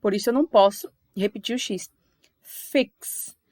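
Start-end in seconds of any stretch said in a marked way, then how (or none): 2.4-3.4 "Fix" ending in a clear k plus s; sound demo of X. Shown as a demonstration. Teacher proving X has two sounds, clear ks. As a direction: let both consonants be heard ending "Fix". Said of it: "o som do X é de duas consoantes".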